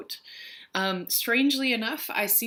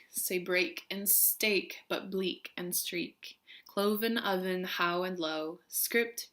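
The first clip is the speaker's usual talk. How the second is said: poem recital. Acted. Vlogger reading English is Tough Stuff, measured recital. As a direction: recite carefully, picking out each rhyming word.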